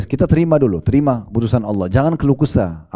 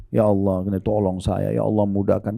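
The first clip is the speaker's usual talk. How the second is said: tearful plea to God; 3 semitones lower, 5 dB quieter than usual. Retold or imitated. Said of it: "mudah sekali kita mewek sama Allah, nangis".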